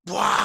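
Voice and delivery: loud, high "whoa" burst; fire-breathing roar. Acted. Private playing a fire monster with lighter, roaring loudly. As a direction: roar out a blast of flame.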